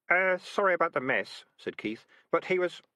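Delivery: a hint of awkward apology; sheepish boy. A narrator's reading. Keith apologizes.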